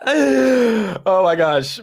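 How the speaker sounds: drawn-out, high, loud laughing groan. Real, not acted. Streamer cracking up at a chat joke, laughing. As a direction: let the words ride out on a real laugh.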